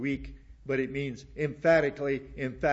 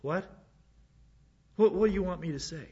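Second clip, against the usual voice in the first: exasperated; 5 semitones higher, faster than usual. Real, not acted. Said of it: "exasperated reply to critics".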